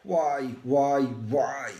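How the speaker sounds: pained shout that gets no answer; screaming why. Acted. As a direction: scream the question at an empty sky. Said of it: "I scream my pain out into the air".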